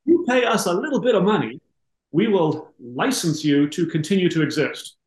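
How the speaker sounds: mobster making a friendly threat; smiling threat. Retold or imitated. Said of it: "Sounds like Goodfellas".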